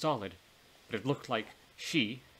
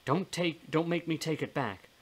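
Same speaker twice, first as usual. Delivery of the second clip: higher, insistent mild threat; scolding warning; 6 semitones higher than usual. Acted. Ghost warns her friend about her gift, scolding warning. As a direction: warn firmly, pitch raised.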